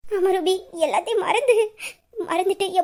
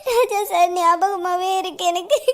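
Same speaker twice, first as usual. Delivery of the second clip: grieving; slower than usual. Acted. Widow telling her sister she misses him, slow and tearful. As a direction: barely hold together through tears.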